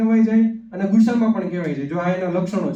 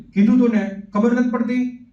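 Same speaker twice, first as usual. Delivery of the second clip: a parent's raised, scolding snap; mock scolding threat; 5 semitones higher than usual. Parent scolding a child over a mistake, mock angry snap. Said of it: "ધમકી આપવા મળીએ".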